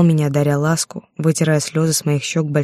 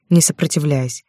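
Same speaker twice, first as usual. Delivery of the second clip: ordinary delivery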